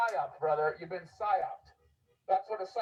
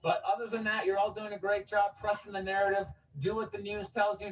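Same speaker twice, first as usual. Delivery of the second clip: syrupy sarcastic reassurance to the crowd; sarcastic preacher soothing the public; mock reassuring. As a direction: lay on the fake sincerity like a friendly official. Continues sarcastic street speech.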